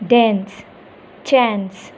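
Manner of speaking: "Dance, chance" with the open "a" of "cat"; demonstrated pronunciation. Shown as a demonstration. Teacher shows students how to say dance, demonstrated pronunciation. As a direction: model "Dance, chance" with an "ae" vowel, word by word. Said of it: "How you are going to pronounce this?".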